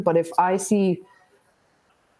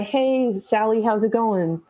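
lightly raised, breezy hello; friendly greeting; 3 semitones higher than usual. Acted. Teacher greeting a student in the hallway, friendly.

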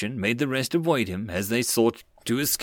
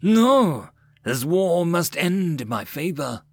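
defiant shout; 5 semitones higher, 3 dB louder, slower than usual. A narrator's reading. Defiant general vows victory.

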